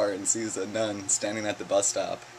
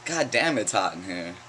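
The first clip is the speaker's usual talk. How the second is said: yelling. Acted. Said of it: "one of them yells".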